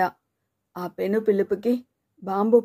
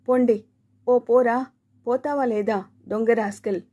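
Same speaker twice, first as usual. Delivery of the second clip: angry shouting. Acted. Subbayya, beating his chest, yells at his son, furious. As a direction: rage at the boy and drive him off. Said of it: "ఏంటయ్యా అలా కేకలేస్తున్నావ్".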